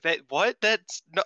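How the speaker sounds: rising, high, slow disbelief; exasperated outburst. Retold or imitated. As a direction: climb into a baffled shriek. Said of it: "And it's like".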